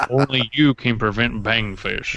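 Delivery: slow, solemn ad slogan voice; mock PSA slogan. Joking bangfish cause forest fires, slow mock PSA slogan. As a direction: parody a forest fire warning ad.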